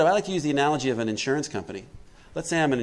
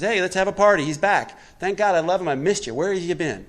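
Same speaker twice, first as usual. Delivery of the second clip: louder, higher, delighted welcome; joyful welcome; 5 semitones higher, 5 dB louder than usual. Retold or imitated. Father welcoming the prodigal son home, joyful and loud. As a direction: throw open your arms in the voice.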